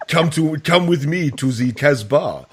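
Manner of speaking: put-on laughing French lover accent; breaking into laughs in French accent. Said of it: "that's all I can do".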